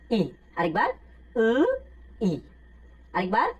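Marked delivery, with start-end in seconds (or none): 1.3-1.5 উ said with the front teeth held together, lips spread. Shown as a demonstration. Teacher shows students Korean eu, উ with front teeth together. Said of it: "উটাকে সামনের দুই দাঁত চেপে বলবো".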